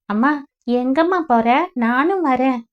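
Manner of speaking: a hint of a child tagging along; little girl asking. Little Anuja asking her mother to take her along, lightly childlike.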